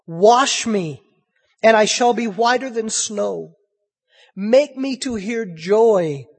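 stately pulpit reading of a penitent psalm; scripture reading. Acted. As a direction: read the psalm like a plea. Reads Psalm fifty-one.

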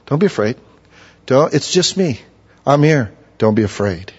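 soft, tender comfort; calm a frightened friend softly; gentle reassurance. Pretend. Jesus comforting his followers, soft and tender.

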